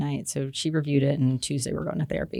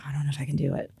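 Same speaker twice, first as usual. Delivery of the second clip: retold anxious murmur; 6 dB quieter, much faster than usual. Retelling husband's stressed reply.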